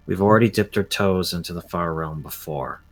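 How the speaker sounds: earnest in-character plea. Acted. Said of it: "I'm gonna look at him and say".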